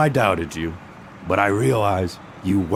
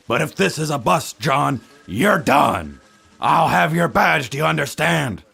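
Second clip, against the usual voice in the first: stern threat; 6 semitones higher than usual. Acted. Chief threatens detective's badge.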